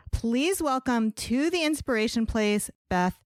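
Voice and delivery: scripted, measured welcome read with lifted key words; podcast host introduction. Real, not acted. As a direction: present the guest like a podcast host.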